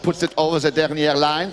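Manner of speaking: put-on French accent. Commentator jokes through the play, mock French accent. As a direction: slip into mock French for the call. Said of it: "in my best French accent".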